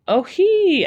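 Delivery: a high, loud little laugh; tickled by the hungry boy; amused giggle. Acted.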